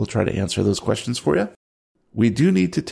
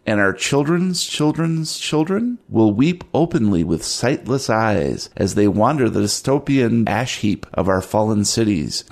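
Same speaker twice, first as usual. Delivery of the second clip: dramatic narration. A narrator's reading.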